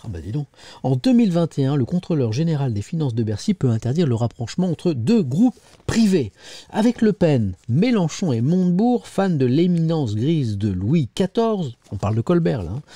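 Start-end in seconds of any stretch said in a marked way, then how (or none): 0.8-11.7 emphatic newspaper reading; editorial read-aloud. Acted. Presenter reading a scathing editorial to viewers, emphatic read-aloud. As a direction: read it out in measured phrases.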